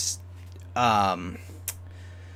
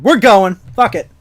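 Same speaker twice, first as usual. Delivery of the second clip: shouting; 6 semitones higher, 8 dB louder than usual. Pretend. Charging in with Patton.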